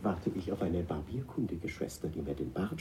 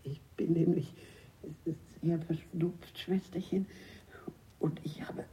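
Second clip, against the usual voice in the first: much higher falsetto posing as a sister; disguised nun voice; 12 semitones higher, 4 dB quieter than usual. Acted. Man in disguise answers in high nun falsetto. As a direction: fake a nun's high voice. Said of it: "Wie heiser deine Stimme ist".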